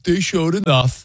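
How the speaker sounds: slow, flat "They showed enough"; flat delivery. Shown as a demonstration. Cohost mocks the grudging delivery, slow and flat. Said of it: "you're delivering it like".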